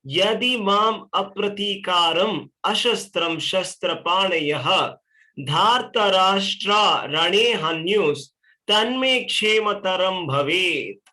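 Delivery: slow, measured Sanskrit recitation; verse recitation. Acted. Teacher reading the verse to his class, slowly intoned. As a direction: intone each syllable of the verse.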